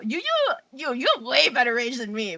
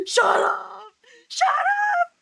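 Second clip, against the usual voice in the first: high-pitched indignant squeal; high mock-outraged cry; playful protest; 12 semitones higher, 4 dB louder, much slower than usual. Real, not acted. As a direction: squeal it, half laughing. Playful protest at being teased.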